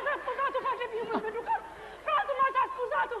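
laughs while wailing about the wedding; mock-despairing laugh; laughing lament. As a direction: moan it with a laugh.

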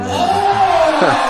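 loud and slow through laughter; mock him while cracking up; laughing. Real, not acted. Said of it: "laughs while mocking".

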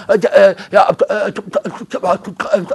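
slow, drawn-out helpless "äh" sounds; flustered stammering. Retold or imitated. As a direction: stall like you have no answer at all. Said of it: "Ach, du bist total unsicher".

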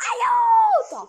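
very high, stretched wail for help; panicked scream. Real, not acted. Gamer under zombie attack screaming to teammates, panicked. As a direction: shriek it out, half laughing.

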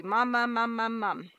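put-on toddler babbling mom over and over; lightly imitating a baby's first word; baby saying mom. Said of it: "She'd just be".

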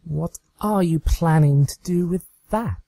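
high, mock-shocked pony voice; Trixie, mock alarmed. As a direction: ham up the discovery. Trixie in the scene.

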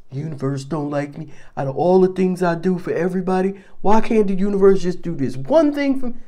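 a hint of a sulky Scorpio complaint; whiny Scorpio. Teasing Scorpios by voicing their complaint, sulky. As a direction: mope it like a self-pitying Scorpio. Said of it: "y'all know y'all are".

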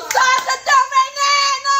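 slow, high sing-song taunt; mock taunting. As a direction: egg her on teasingly. Egging friend on. (provocação cantada, aguda e lenta)

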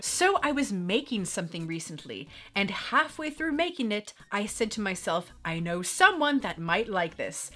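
put-on letter read in a light British accent. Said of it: "in the British accent".

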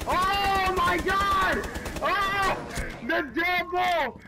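slow drawn-out hype yell; excited shout. Real, not acted. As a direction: stretch it out in a thrilled shout. Hype shout during gameplay.

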